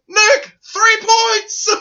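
high, slow drawn-out call; excited announcer call. Retold or imitated. Announcer calling the kick a field goal, slow excited call. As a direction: stretch it out like a gleeful commentator.

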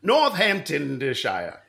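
slow, careful place name; sounding it out slowly; drawn-out. Pretend. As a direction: stretch out every syllable. Second attempt at the place name.

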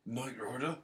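put-on quiet, questioning try at an Eastern European accent; attempted Eastern European accent. Host copying co-host's demo, tentative Eastern European accent. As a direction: copy the Eastern European accent, unsure and soft. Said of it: "have to say it with the accent".

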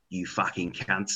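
"can't" for cunt in a drawn-out London accent; southern English accent. Shown as a demonstration. Showing friends how the South swears, London accent. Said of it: "the way they say it".

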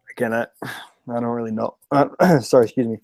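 rough, hoarse throat after a game. Real, not acted. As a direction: voice worn out from yelling. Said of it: "My voice is gone 'cause I was yelling".

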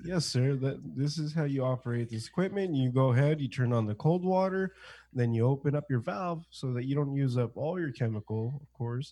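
mock-professional equipment walkthrough; professional trainer. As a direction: lightly put on a polite work voice.

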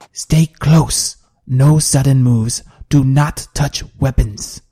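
slow, emphatic commands; firm warning orders. Acted. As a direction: warn the group, word by word. Warrior giving tense warning orders.

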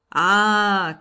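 in a passion. A narrator's reading. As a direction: cry out as an impassioned judge. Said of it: "cried the judge in a passion".

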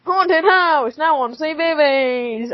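put-on slow kids' channel announcer; TV presenter voice. The girl keeps her TV man voice. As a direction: announce like a children's TV host. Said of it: "my default accent for T V man".

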